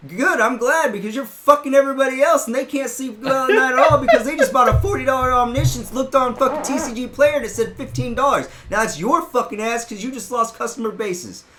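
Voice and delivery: ranting at the overpricing shop owner; yelling. Retold or imitated. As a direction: tear into him at full volume. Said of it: "I started fucking yelling".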